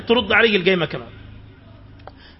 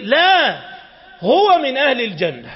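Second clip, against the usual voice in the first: emphatic reassurance; 3 semitones higher, 3 dB louder, slower than usual. Acted. Prophet firmly reassures about Thabit.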